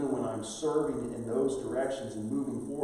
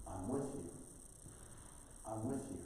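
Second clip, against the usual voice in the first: soft reassurance; 11 dB quieter than usual. Acted. God's answer repeated.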